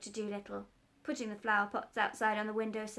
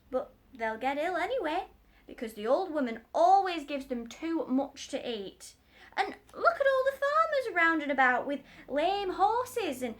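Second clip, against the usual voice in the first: raised, loud, eager tradesman; excited working man, higher and louder; cat's meat man; 4 semitones higher, 5 dB louder than usual. Acted. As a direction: gush over the doctor's book.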